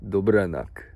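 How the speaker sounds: dobranoc said with a Polish accent, falling at the end; put-on Polish accent on dobranoc. Shown as a demonstration. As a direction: say dobranoc the way a Pole would. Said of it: "I don't know why I say it in that accent".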